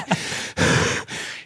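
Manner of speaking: voiceless, winded puffing; acted panting. Man bursting in after sprinting upstairs, mock panting. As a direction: pant as if out of breath. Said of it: "I'm st-, out of breath".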